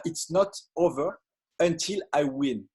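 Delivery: English with a self-mocking Texas accent. Shown as a demonstration. Speaker quoting Les Brown to the audience, joking Texas accent. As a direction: put on your so-called Texas accent, measured and deliberate. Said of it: "je vais vous le dire avec mon accent du Texas".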